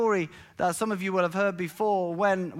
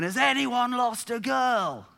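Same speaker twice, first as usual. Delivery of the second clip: calling out; 6 semitones higher, slower than usual. Retold or imitated. Neighbour calling out in street.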